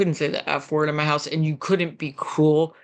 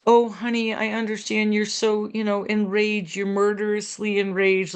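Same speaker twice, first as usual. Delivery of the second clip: a little higher, sugary mock sympathy; gushing overparent, mildly mocked; 4 semitones higher than usual. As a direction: play the smothering parent as a light parody. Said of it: "like a Saturday Night Live skit".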